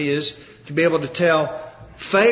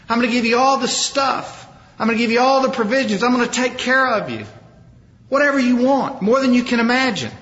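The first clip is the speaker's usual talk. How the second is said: higher-pitched, expansive royal welcome; acted generous enthusiasm; 5 semitones higher than usual. Pharaoh lavishing gifts on Joseph's brothers, acted generous enthusiasm. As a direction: play a king eagerly piling up promises.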